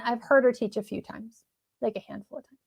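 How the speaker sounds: dry, deadpan sarcastic understatement. Shown as a demonstration. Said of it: "I'm being sarcastic".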